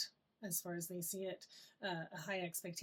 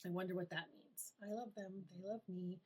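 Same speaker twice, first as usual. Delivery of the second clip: calm, curious inner voice; 5 dB quieter than usual. Shown as a demonstration. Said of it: "and you're like".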